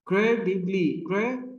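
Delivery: क्रे-डिबली with weight on क्रे; stress on क्रे. Shown as a demonstration. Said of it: "ये stressed है".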